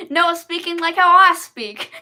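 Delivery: light mock Texan read with a laugh in it; a hint of a Texan accent. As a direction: say it in a Texan twang. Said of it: "you think he sounds Texan".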